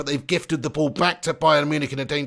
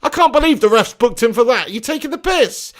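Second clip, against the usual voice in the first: outraged; 5 semitones higher, 3 dB louder than usual. Real, not acted. Outraged at the referee's booking.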